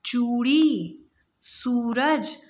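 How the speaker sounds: चूड़ी and सूरज with the long ऊ drawn out and weighted; long stressed oo. Shown as a demonstration. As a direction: lean on the long ऊ in चूड़ी and सूरज, teacher style. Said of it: "हमने ऊपर ज़्यादा वज़न देके बोला है".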